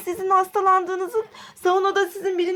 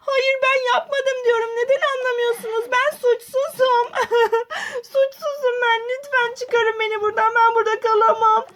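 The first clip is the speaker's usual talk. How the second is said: desperate pleading; 5 semitones higher than usual. Acted. Aden hücrede çaresiz.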